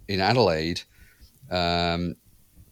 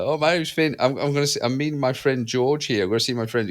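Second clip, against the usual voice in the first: put-on little kid voice; 5 semitones higher than usual. Child Finn voiced in story.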